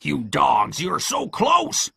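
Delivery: rising to a high, drawn-out wail; frustrated cry. A narrator's reading. Pew berates his fleeing men, crying out. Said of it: "cried Pew".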